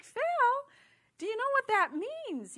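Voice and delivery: high, loud mock-scolding of a child; exasperated parent, acted out high-pitched; retold parental reproach. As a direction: call out the child's name, high and loud, then question.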